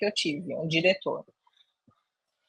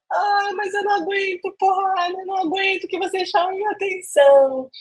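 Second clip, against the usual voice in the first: put-on much higher, childish whine, milking his kindness; mock whiny complaint; 10 semitones higher than usual. Quoting herself to the director, high mock whine. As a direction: play the spoiled employee, high and whining. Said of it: "Eu peguei e falei assim".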